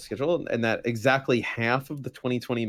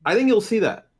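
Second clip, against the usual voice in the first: robotic, distorted mic sound; 10 semitones higher, 6 dB louder than usual. Real, not acted. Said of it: "'Cause you sound like a robot".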